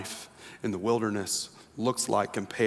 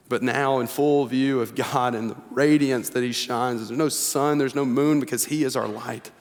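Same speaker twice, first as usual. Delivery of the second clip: fervent sermon peak; preaching at full force; 2 semitones higher than usual. Acted. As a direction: build to a triumphant proclamation.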